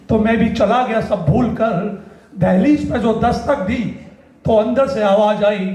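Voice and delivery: stage poet's falling cadence; poetry recitation. Acted. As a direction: recite the ending line by line. Final lines of the poem.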